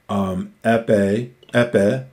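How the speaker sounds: epe with the accent on the first syllable, EP-e. Shown as a demonstration. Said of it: "accent is on the first syllable of epe".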